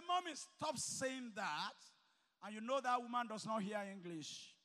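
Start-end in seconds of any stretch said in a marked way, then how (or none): 0.1-1.7 mock rude child. Mocks child snubbing mother.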